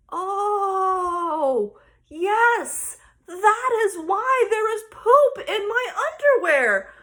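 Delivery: imitating a kid who finally gets it; dawning realization. Daughter working it out for mom, mock dawning realization.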